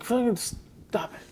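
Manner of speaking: soft, slow mock growl; under the breath, slow and menacing; muttered movie line. Acting out Eric's line.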